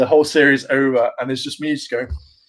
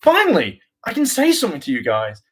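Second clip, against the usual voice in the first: finally speaking; 5 semitones higher than usual. Retold or imitated. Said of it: "I'll be like".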